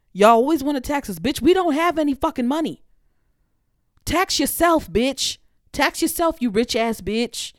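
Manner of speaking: high, loud shouted tax yourself; angry rant. Real, not acted. Ranting at the rich about taxing the poor, high angry shout. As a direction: fling it at the rich.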